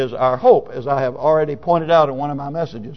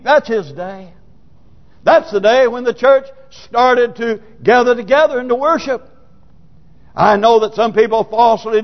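raised-pitch, insistent pulpit argument; emphatic preaching; 7 semitones higher, 3 dB louder than usual. Acted. Preacher defending the Lord's day, insistent preaching. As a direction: argue it firmly to the congregation.

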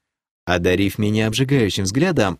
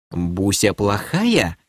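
прошипела; much slower than usual. Acted. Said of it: "прошипела баронесса".

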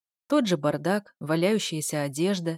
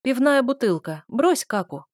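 sharp bark of a command, a bit higher; 5 semitones higher, 4 dB louder than usual. Acted. Narrator barks at the princess to drop the bottle. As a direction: snap at her like a dog owner. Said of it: "гавкнула я".

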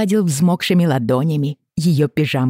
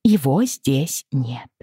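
evenly; much slower than usual. Acted. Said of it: "ровно повторила она".

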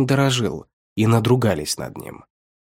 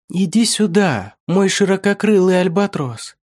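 rough unnatural voice; 8 semitones higher than usual. Acted. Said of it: "Шершаво, неестественно проговорила она".

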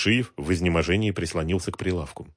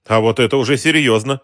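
coldly; 6 semitones higher, 8 dB louder than usual. A narrator's reading. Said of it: "холодно заметил незнакомец".

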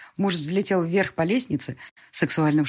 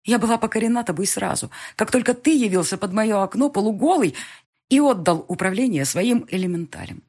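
higher, tearful but smiling; smiling through tears; 5 semitones higher, 4 dB louder than usual. A narrator's reading. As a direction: speak through happy tears. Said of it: "улыбаясь сквозь слёзы".

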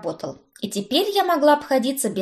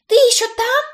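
calling out; 14 semitones higher, 7 dB louder than usual. A narrator's reading. Brit calling through the mirror.

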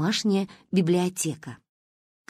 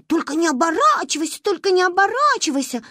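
mock sepulchral voice; 9 semitones higher, 3 dB louder than usual. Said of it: "приговариваешь загробным голосом".

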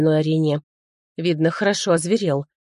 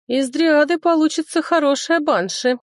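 sword voice; 10 semitones higher than usual. A narrator's reading. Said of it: "мысленно поведала мне шпага".

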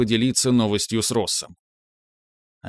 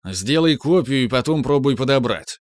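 annoyed shout; 2 semitones higher, 3 dB louder than usual. Acted. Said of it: "с ещё большим недовольством выкрикнул Виктор".

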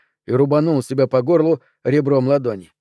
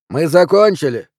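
louder, curt and annoyed; irritated; 4 semitones higher, 6 dB louder than usual. Acted. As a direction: shut them down, fed up. Irritated scientist refusing.

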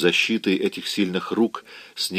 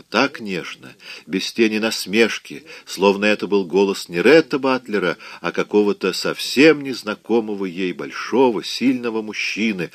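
usual speaking voice

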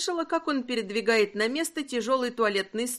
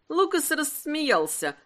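ordinary delivery, nothing marked

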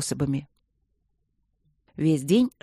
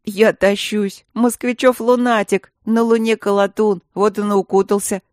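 guffawing jeer; 4 semitones higher, 7 dB louder than usual. A narrator's reading. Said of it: "гоготнул Петухов".

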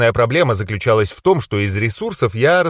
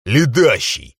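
pleased; slower than usual. Acted. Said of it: "обрадовался я".

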